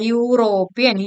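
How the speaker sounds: യൂറോപ്യൻ said starting with a clear "yoo" glide; yoo sound demo. Shown as a demonstration. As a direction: open യൂറോപ്യൻ with a "yoo" sound, not a vowel. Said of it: "യാ എന്നുള്ള pronunciation ആണ് വരിക". (യൂറോപ്യൻ "യൂ" ശബ്ദത്തോടെ തുടങ്ങി പറയുക)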